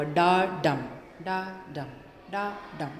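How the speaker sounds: iambic beat spoken aloud; da-DUM rhythm. Shown as a demonstration. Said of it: "गहरे जोर देकर बोला हुआ".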